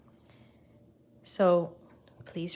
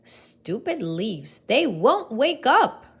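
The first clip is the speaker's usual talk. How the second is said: frowning; 4 semitones higher, 7 dB louder, slower than usual. Acted. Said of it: "who frowned".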